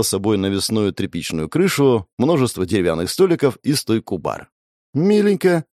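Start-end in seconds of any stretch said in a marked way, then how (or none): 4.9-5.6 high, cute little approval; sweetly pleased. A narrator's reading. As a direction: coo it like a happy girlfriend. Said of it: "кивнула Вайлет". (умилённо и высоко)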